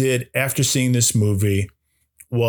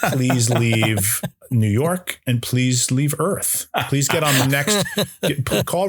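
mock banishing; slower than usual. Real, not acted. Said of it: "mock banishing friend".

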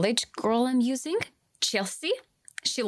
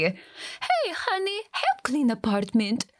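imagined wife; 2 semitones higher than usual. Acted. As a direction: call out as a mock nagging wife. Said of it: "Must have driven his wife crazy".

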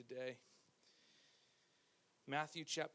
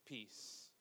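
voiced higher and louder, pleading and worried; anxious, pleading listener; 7 semitones higher, 4 dB louder than usual. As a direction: play a panicked believer begging for answers. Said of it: "you're like".

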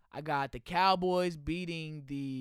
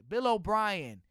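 usual speaking voice

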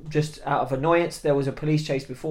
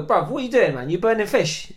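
raised, exasperated colleague's voice; telling off; 5 semitones higher than usual. Retold or imitated. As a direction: scold a workmate, acted out. Voicing a colleague telling him off.

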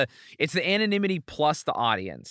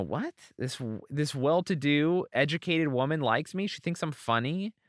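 amazed disbelief. Retold or imitated. Retells own amazement at being liked.

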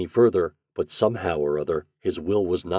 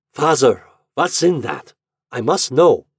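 louder, higher, insistent son; raised voice, newly resolute; determined; 6 semitones higher, 7 dB louder than usual. A narrator's reading. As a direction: insist on an answer from your father. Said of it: "first signs of determination in his voice".

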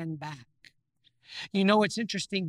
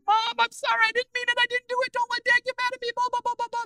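put-on high, childish pleading voice, much higher than his own; pleading little boy; 3 dB louder, faster than usual. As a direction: play a panicked nine-year-old begging his mom. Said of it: "And I said".

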